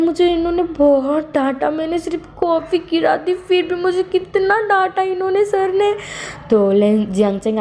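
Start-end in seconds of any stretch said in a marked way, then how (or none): 0.0-5.9 high, whiny, hurt voice; a scolded assistant whining through tears, much higher; tearful complaint. Retold or imitated. Wing still crying to Myanmyan.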